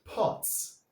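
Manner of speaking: pots with a rounded short aw, pots; pots, vowel aw open; model word. Shown as a demonstration. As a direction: say "pots" clearly for pupils to copy. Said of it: "Can you hear this sound in the word".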